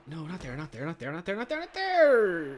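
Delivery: builds to a high, loud yell; rising panicked yell. Real, not acted. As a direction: climb from urging to yelling. Yelling at a bad play.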